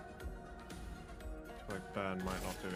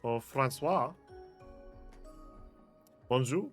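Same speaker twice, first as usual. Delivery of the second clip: loud greeting; 7 semitones lower, 11 dB louder than usual. Real, not acted. Greeting game character loudly.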